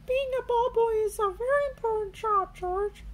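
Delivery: put-on high, quick persuading child; Peppa Pig. A narrator's reading. Peppa persuades George the ball boy job matters, high voice. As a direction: sell the job to him.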